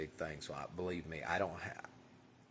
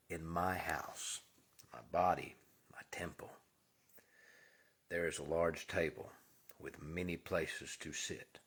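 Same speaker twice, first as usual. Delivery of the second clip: slow solemn affirmation. Shown as a demonstration. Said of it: "you say it just like I'm saying it".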